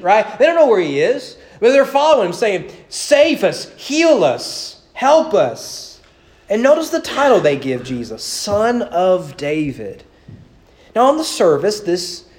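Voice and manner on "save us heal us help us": mock pleading cry. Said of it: "they are screaming".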